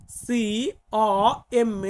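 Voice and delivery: slow letter-by-letter spelling, C O M; spelled out letter by letter. Shown as a demonstration. Teacher spelling কমে for students, letter by letter. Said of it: "কিভাবের মানেও কমে".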